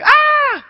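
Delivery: very high, loud squealing shriek; kids' shriek. Retold or imitated. Kids startled when the frog jumps, shrieking high and loud. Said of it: "they all scream".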